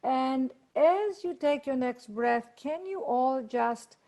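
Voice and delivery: gentle Zoom meditation lead; guided meditation. Acted. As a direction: guide the group into calm.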